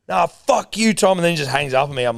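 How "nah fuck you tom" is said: high, indignant mock yell; raised-pitch sweary sign-off; retold angry outburst. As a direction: imitate the caller's parting abuse. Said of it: "he screamed at me once down the phone".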